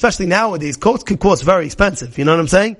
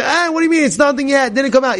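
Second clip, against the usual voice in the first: dismissive objection; 6 semitones higher, faster than usual. Retold or imitated. Acted objector brushing off the issue.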